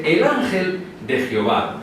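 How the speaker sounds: "el" set apart and stressed; weight the article "el". Shown as a demonstration. Preacher showing the exact wording, stressing el.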